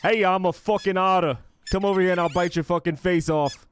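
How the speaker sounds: high, loud, squeaky animal threat; cartoon otter snarling a threat. Voicing attacking otter, dog toy.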